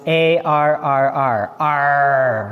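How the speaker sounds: gruff pirate growl Arr. Acted. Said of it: "Was that a good pirate voice?".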